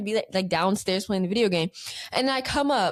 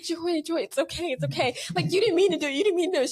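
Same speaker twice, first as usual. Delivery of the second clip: higher-pitched, coaxing comfort; mock reassuring; 6 semitones higher than usual. Comforts crying sister with a napkin, reassuring. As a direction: imitate soothing someone in tears.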